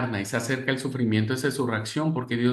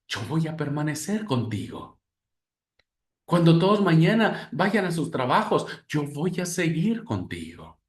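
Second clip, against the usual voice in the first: tender comfort. Acted. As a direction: hold the grieving one close with your words. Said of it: "nos sigue diciendo".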